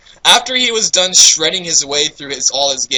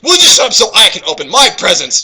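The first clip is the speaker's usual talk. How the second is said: mild shout; 3 semitones higher, 4 dB louder than usual. Acted. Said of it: "Shouted Jackal".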